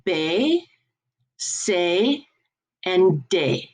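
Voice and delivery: "B, C, D" said "bay, say, day"; French B, C, D as "bé, cé, dé"; French letter names. Shown as a demonstration. Teacher introducing first letters to class, French pronunciation "bay, say, day". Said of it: "we have our first four letters".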